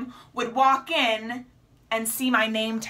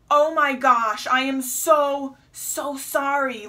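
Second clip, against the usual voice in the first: slow, emphatic mock apology; retold earnest apology; slower than usual. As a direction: stretch it out, imitating someone taken aback. Retold apology by taken-aback customer.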